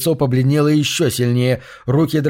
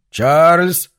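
higher, louder calling up the stairs; angry call; 4 semitones higher, 4 dB louder than usual. Acted. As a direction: call the boy sharply. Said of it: "сердито звал он".

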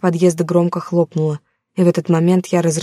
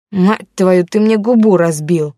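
loud, furious complaint; angry yell; 4 dB louder, slower than usual. Acted. Thug with a split lip yelling at his leader, furious. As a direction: bark out the pain and rage.

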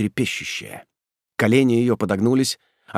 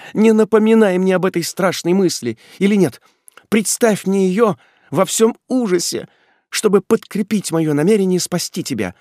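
impassioned plea; 9 semitones higher, 5 dB louder than usual. Acted. Ethel's impassioned plea to Ordener.

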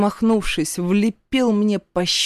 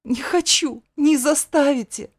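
higher, sobbing plea; tearful protest; 8 semitones higher than usual. A narrator's reading. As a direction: protest through tears, voice up high. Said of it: "всхлипнув".

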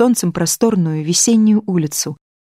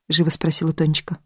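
plain reading voice

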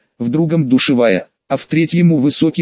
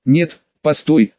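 ingratiating. Acted. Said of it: "заискивающе просил он у меня".

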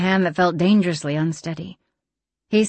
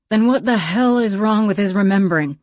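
demanding; 3 semitones higher, 3 dB louder than usual. Acted. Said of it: "Bess demanded".

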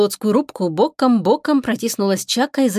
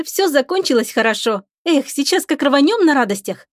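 put-on a much higher, bubbly girl's voice; chatty young girl; 4 semitones higher than usual. Lika chatters to the captain about coffee, higher bubbly voice.

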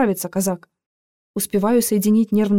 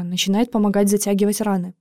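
plain reading voice

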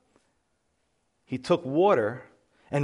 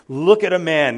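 louder, punched out on look; the same line now preached with force; emphatic proclamation; 7 dB louder than usual. Shown as a demonstration. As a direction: call it out to the congregation. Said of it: "it literally reads".

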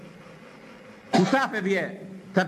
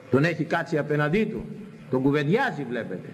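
usual speaking voice

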